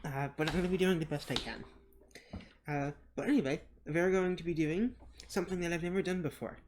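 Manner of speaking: talking around gauze after a tooth pulled; gauze in mouth. Real, not acted. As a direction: speak with gauze packed in your cheek. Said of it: "so today I have some gauze in my mouth, so my voice probably sounds a little odd".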